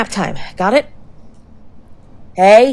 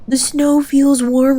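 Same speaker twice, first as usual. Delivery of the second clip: mock drowsy line; 4 semitones higher, slower than usual. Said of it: "routine with me".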